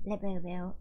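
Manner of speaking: put-on rough go at a European accent; attempted European accent. Imitating a TikTok girl showing off her Labubu, attempted European accent. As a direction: try a European accent, not quite landing it. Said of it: "I can't do the accent".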